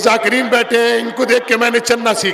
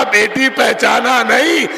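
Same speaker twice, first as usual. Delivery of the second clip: grief-stricken chanted lament; preaching at full force; 3 semitones higher than usual. Acted. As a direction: wail the daughter's cry to her father.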